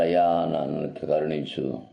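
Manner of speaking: slow, lightly voiced weeping plea; a touch of crying, pleading slowly; tearful plea. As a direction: beg for mercy, slow and hurt. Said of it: "బాధతో ఏడుస్తూ అన్నాడు".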